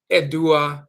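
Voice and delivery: "edua" as eh-doo-ah; Akan word. Shown as a demonstration. Teacher naming the word for trees, "edua". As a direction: sound out "edua" evenly. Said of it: "The word for trees".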